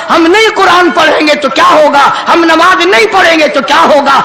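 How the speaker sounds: forceful rhythmic preaching; fiery exhortation. Acted. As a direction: challenge the congregation phrase by phrase. Preacher challenges the youth. (जोशीली तकरीर)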